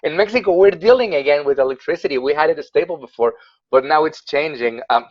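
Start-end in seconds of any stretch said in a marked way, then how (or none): 0.0-2.2 excited interjection, pitched up. Real, not acted. Host cuts in about Mexico's electricity, excited. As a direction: jump in eagerly, higher than usual. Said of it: "I just got excited".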